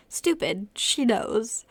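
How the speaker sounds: loud, frustrated self-scolding; self-reproach. A narrator's reading. Asthmatic girl berates herself for no inhaler, frustrated. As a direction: scold yourself forcefully.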